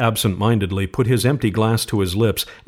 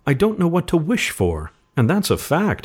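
higher-pitched, musing reluctance; slow; 8 semitones higher than usual. A narrator's reading. Father puzzling over what to wish for, slowly. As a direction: ponder it with mild hesitation. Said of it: "he said slowly".

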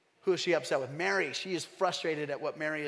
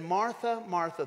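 tender; 3 semitones higher, 4 dB louder than usual. Retold or imitated. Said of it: "a tenderness in how he said it".

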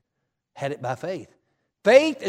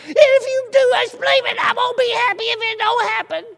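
high, loud pleading mother's voice; worried mama; 12 semitones higher, 6 dB louder than usual. Retold or imitated. Mother begging her son not to get his hopes up, high pleading voice. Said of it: "That's what my mama said".

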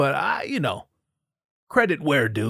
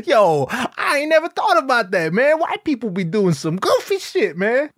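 laughing audience member; 9 semitones higher than usual. Retold or imitated. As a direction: hype fan blown away by the joke.

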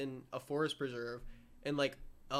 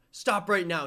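loud, raised-pitch mock order; firm retold shout, pitched up; retold yell; 4 semitones higher, 8 dB louder, slower than usual. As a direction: imitate a hiker yelling at a cougar. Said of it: "he was, like, yelling at him".

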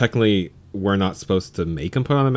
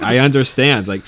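louder, slower, laughing agreement; agreeing with a laugh; 3 semitones higher, 5 dB louder than usual. Retold or imitated. Telling a maskless customer she agrees, louder with a laugh. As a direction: chuckle through it while siding with him. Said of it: "Like, I tell him that".

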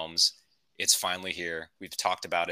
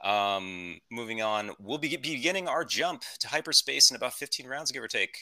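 lightly voiced pilot making an in-flight announcement; a hint of a captain on the intercom; airline captain; 2 semitones higher than usual. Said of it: "This is your captain speaking".

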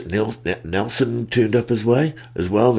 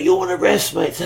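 quoting Lance; 11 semitones higher than usual. Retold or imitated. Lance quoted asking.

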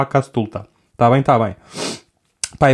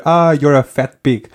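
joking insult; 2 semitones higher, 4 dB louder, slower than usual. Shown as a demonstration. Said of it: "a um amigo teu queres dizer".

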